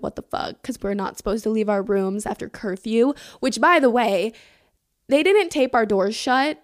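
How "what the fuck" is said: whispered teacher. Retold or imitated. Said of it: "she's gonna be like".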